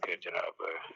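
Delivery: usual speaking voice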